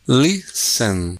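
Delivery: "Listen" drawn out, with no T; silent T. Shown as a demonstration. Teacher checking silent-letter answers, drawn-out silent T in "Listen". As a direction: stretch "Listen" out, leaving the T silent. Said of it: "Letter T".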